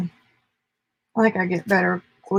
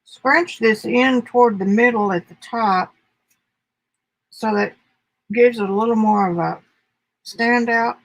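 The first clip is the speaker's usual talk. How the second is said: talking with pins between lips; pins in mouth; 2 semitones higher, 4 dB louder than usual. Real, not acted. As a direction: mumble around a held pin. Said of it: "I got a pin in my mouth".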